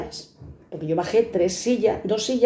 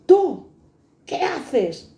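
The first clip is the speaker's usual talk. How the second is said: sergeant's shout; 7 semitones higher, much slower than usual. Retold or imitated. Sergeant yelling at the young guard, mock shout. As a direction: yell it like a bossy sergeant.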